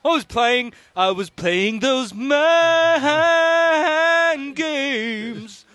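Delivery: lightly gloating villain; a hint of a smug schemer; Iago voice. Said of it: "You do the Iago".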